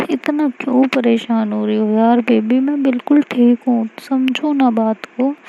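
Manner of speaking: calm her down, tenderly; reassuring. Acted. Aashi reassures Mahi.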